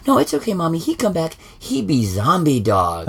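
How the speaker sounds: put-on high, sweet little-girl voice; child's voice. Dad quoting his daughter about the dog, child voice. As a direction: quote the daughter like a small kid. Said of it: "my daughter, goes".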